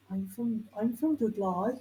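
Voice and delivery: Dudley-style Black Country accent. Shown as a demonstration. Demonstrating the accent of Peaky Blinders to friends, Black Country accent. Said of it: "Peaky Blinders isn't Brummy, it's Black Country".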